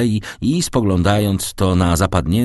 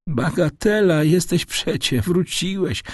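gentle smile; 11 semitones higher than usual. A narrator's reading. Old father forgiving his returned son, gently reassuring. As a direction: brush it off gently with a smile, pitched high. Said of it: "uśmiechając się łagodnie".

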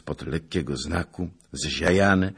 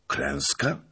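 rising, unbelieving Klęska?; disbelieving question; 3 semitones lower than usual. Acted. Officer hears of the army's fate, rising dread. Asking if it was defeat.

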